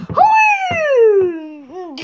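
high, loud triumphant hooray; cheer. Pretend. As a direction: cheer like you just won. Hero cheers.

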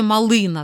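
«малина» said with the middle syllable ЛИ stronger and longer; «мали́на» with stress on the second syllable. Shown as a demonstration. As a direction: lean on ЛИ in «малина». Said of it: "другий".

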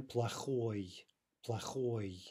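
"плохой" with the stress on final -ой; stress on the ending. Shown as a demonstration. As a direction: land clearly on the -ой of "плохой". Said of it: "note the stress on that ending".

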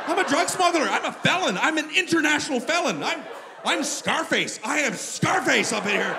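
loud, high frantic self-accusation; hammed-up panicked yelling. Traveler realizing he smuggled drugs, frantic hammed-up yelling. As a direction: yell each confession in mock horror. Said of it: "and I screamed".

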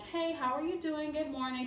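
calm and relaxed. Retold or imitated. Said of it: "just trying to be calm and relaxed".

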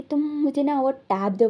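a mild mock yell demanding the tab; lightly shouted order, retelling the scene; retold yell. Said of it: "लंजा ना चिल्लाते कि". (हल्का नकली चिल्लाना)

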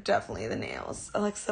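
usual speaking voice

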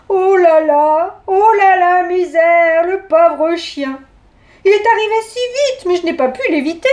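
put-on a dithering old lady fussing over the hurt dog; Mère Grand flustered. Granny after hitting the wolf.

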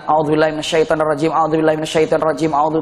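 low, running repeated prayer; continuous recitation. Retold or imitated. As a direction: lightly imitate nonstop chanting under strain. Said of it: "terus, terus".

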